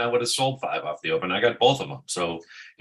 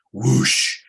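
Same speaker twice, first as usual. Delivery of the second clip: quick voiced whoosh, raised and drawn in pitch; imitated whoosh; 4 semitones higher, 4 dB louder than usual. Shown as a demonstration. Trader mimicking the market's quick move, imitated whoosh. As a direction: make a sudden whooshing noise.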